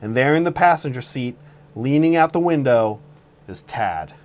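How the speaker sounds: suspenseful campfire-story voice; dramatic storytelling. Acted. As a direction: paint a tense scene like a thriller. Dramatic story narration of roast.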